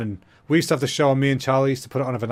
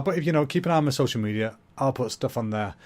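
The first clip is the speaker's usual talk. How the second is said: out of breath; 4 dB quieter than usual. Real, not acted. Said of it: "I'm all out of breath".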